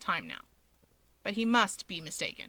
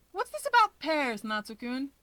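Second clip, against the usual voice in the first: light Keigo; 4 semitones higher than usual. Acted. Keigo's voiced line.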